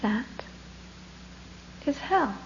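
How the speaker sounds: calm, hushed monk, pausing between words; very quiet voice. Acted. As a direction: say it quietly and gently, unruffled. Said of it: "in a very quiet voice".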